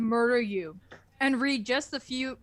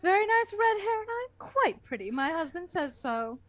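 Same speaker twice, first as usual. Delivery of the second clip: a hint of a huffy schoolteacher, pitch rising; teacher character protesting the narrator's insult, lightly huffy; offended teacher; 5 semitones higher than usual. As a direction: play the teacher, mildly indignant about her looks. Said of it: "you're Missus Lesson".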